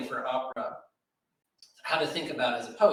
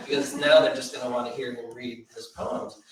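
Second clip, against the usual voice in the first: laughing; 6 dB louder than usual. Real, not acted. Laughing while telling.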